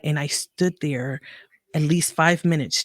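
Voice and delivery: ordinary talk, nothing marked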